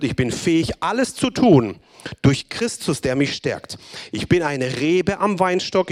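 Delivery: slow, emphatic declaration, each "Ich bin" weighted; solemn proclamation. Acted. Preacher reading the proclamation to the congregation, slow and emphatic. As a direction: proclaim every line like a confession of faith. Reads long proclamation list.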